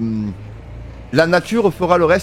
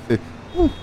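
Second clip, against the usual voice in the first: laughing; 13 semitones higher, 4 dB quieter than usual. Real, not acted. Laughs at his own joke.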